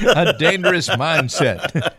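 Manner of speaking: slowly spells out "A dangerous mindset."; slow clear repeat. Real, not acted. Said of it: "A what?".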